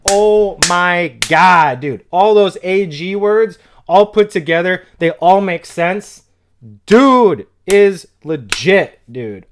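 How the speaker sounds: slow, stunned praise for the bar; real amazement, stretched and loud; amazed hype. Real, not acted. Reacting to a clever lyric.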